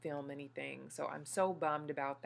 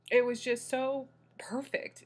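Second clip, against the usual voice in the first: overjoyed; 5 semitones higher, 6 dB louder, slower than usual. Real, not acted. Emotional peak of birth story.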